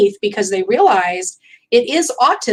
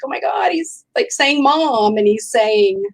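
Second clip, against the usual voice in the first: a retold "oh my God" that starts high; mild excitement; 5 semitones higher than usual. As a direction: relive the moment lightly moved. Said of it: "I remember being emotional".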